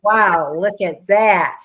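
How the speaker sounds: loud, slow, impressed wow at a woman walking by; admiring quote. Retold or imitated. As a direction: call it out like a smitten young man. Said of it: "And he says".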